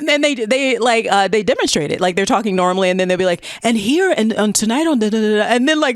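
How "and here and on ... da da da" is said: newscaster voice. Retold or imitated. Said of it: "they go into that newscaster voice".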